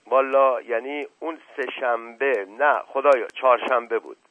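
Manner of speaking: hint of a cornered village servant; flustered old servant. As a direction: fumble for an excuse, nervous and loud. Voiced servant Mash Qasem stammering.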